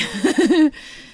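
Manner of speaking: helpless giggling mid-answer; uncontrollable giggle. Real, not acted. Actress losing it while describing her film family, giggling. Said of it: "I'm, like, giggling".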